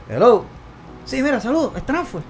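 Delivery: strangled voice. Retold or imitated. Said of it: "No me sale la voz de Transform".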